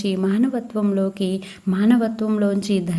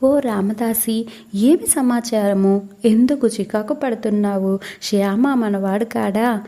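Baba's calm admonition. Acted. A saint rebukes an angry devotee over a book, mild calm reproach. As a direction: rebuke him gently, like a patient elder. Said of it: "బాబా శాంతంగా రామదాసిని హెచ్చరించారు".

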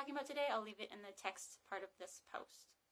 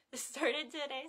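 louder, higher, slow redo of "started today" with a laugh; laughing self-correction; 4 semitones higher, 6 dB louder, slower than usual. Real, not acted. Librarian correcting a slip on camera, laughing self-correction. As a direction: laugh at your own slip and restate "started today" slowly. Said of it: "so I'm really tongue-tied".

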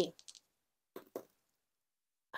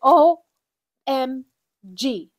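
excited shout; 3 semitones higher, 10 dB louder, slower than usual. Real, not acted. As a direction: spell out O M G in a burst of real excitement. Huge surprise at cash total.

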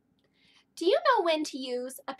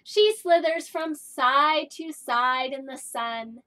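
slow storytelling; 6 dB louder, slower than usual. Acted. Story read to kindergarten.

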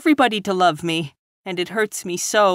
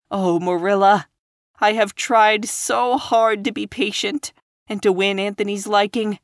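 put-on higher, ashamed girl near tears; tearful; 8 semitones higher than usual. A narrator's reading. Ashamed young teacher to Marilla, tearful. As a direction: lament it through a catching voice. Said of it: "When Anne's sobs grew quieter".

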